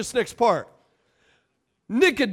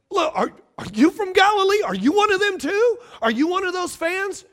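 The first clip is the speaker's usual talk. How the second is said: mock him as one of them; scornful Pharisees; 8 semitones higher than usual. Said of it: "What they wanna hear is".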